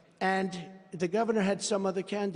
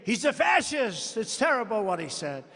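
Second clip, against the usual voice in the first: mock outrage; 4 semitones higher than usual. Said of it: "They'd say".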